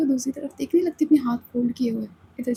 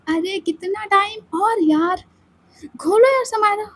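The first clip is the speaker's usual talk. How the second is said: slow, high drawn-out whine; whiny plea; 7 semitones higher, 3 dB louder than usual. Acted. Ananya whining at Samaira to open the door, drawn out. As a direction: stretch the plea out.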